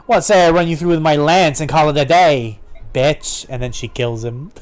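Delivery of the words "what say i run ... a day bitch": mildly voiced fighting heroine; acted defiance, lightly in character; defiant sister. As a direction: throw the threat back boldly.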